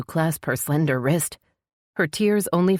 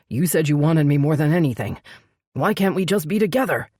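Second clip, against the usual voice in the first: heroine voice; 3 dB louder than usual. Acted. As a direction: play her close to tears.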